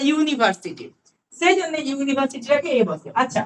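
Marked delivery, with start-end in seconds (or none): 0.1-0.8 ইউনিভার্সিটি spoken carefully with a yu glide; careful pronunciation. Shown as a demonstration. Teacher models correct pronunciation of the word. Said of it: "যদি pronunciation তোমরা ঠিকঠাক করো".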